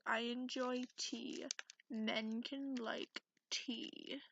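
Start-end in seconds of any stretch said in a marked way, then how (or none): 1.9-4.2 defensive. Acted. Defends liking tea.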